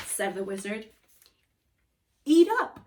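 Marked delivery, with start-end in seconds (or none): 2.3-2.8 hearty. Acted. Wizard urging kids.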